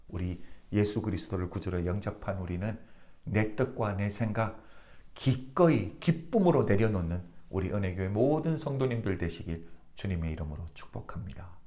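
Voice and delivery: normal talking voice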